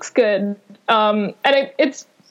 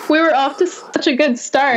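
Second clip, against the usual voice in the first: laughing; 3 semitones higher than usual. Real, not acted. Laughing at the bad connection.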